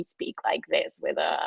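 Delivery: creaky fry, super low pitch and almost no air; vocal fry demo. Shown as a demonstration. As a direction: show what vocal fry sounds like. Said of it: "a super low pitched tone and almost no air".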